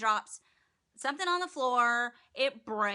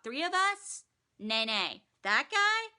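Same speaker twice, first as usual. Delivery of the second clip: mock innocent henchman; 5 semitones higher, slower than usual.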